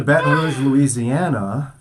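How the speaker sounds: "Baton Rouge" said the French way, slow "Louisiana"; hammed-up French "Baton Rouge"; French Louisiana accent. Shown as a demonstration. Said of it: "did I say that? I probably said it wrong".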